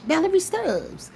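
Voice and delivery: drawn-out, high-pitched call of her name. Pretend. Calling out to the trustee by name, drawn out. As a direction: sing her name out slow.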